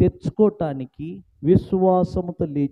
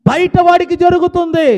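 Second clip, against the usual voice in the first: వాడికి pushed higher and louder in the second take; louder repeat; 9 semitones higher, 8 dB louder than usual. Real, not acted. Pastor rebuking the church for disbelief, louder repeat. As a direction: raise the repeat into a loud rebuke. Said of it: "repeated louder".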